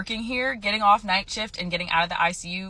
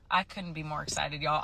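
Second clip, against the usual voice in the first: softer, held-in delivery; understated excitement; 3 semitones lower, 7 dB quieter than usual. Real, not acted. Nurse confiding in viewers about quitting, quietly understated. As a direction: say it softly, holding the excitement in. States excitement, low first take.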